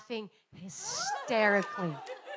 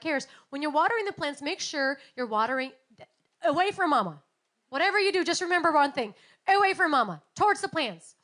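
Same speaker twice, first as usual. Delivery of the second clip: raised, quick then firm warning; mother's warning; 5 dB louder, faster than usual. Retold or imitated. Mother warns her son with the hose, raised and firm. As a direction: call it out so the boy hears.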